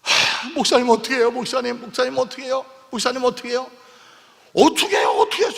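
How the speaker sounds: a hint of a crying elder begging the pastor; elder weeping. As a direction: plead like a weeping elder, lightly acted. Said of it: "우리 장로님 막 울어요".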